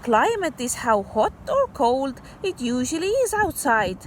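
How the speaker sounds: put-on bright read-aloud voice for kids; story reading. Teacher reading a story to kids, storybook voice. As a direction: read the picture book to children. Reads picture book aloud.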